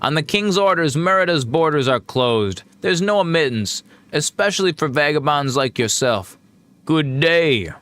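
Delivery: lightly voiced guard refusing entry; a hint of an officious border guard, turning travellers away; gate guard.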